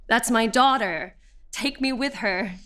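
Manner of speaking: mild, half-voiced mock cry; retold mother's scream. Mother pleads to join her seized daughter, mild retold scream. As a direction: imitate a mother's outcry without full volume. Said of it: "I heard my mother screaming".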